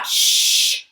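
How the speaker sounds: sharp hiss for silence; hissed shush. A narrator's reading. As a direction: hush her fast. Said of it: "hissed Chloe".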